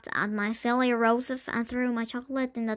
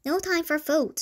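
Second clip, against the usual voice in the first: bossy; 5 semitones higher than usual. Acted. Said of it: "she told Trapp".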